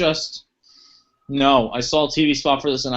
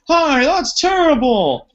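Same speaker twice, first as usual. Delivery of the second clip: high, slow oblivious cop; dumb cop voice; 11 semitones higher, 3 dB louder, slower than usual. Retold or imitated. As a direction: drag it out like a clueless officer. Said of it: "He's like".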